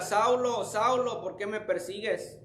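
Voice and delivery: lightly acted heavenly call, pitched high; a hint of a summons from above. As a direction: call the name out high, then soften for the question. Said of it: "oí una voz que me decía".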